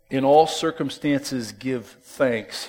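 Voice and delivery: slow, deliberate quote stressing all. Real, not acted. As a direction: draw out in all circumstances.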